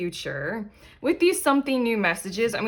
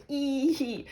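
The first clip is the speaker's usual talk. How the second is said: delighted squeal; 5 semitones higher, 3 dB quieter than usual. Real, not acted. Delighted at the card drawn.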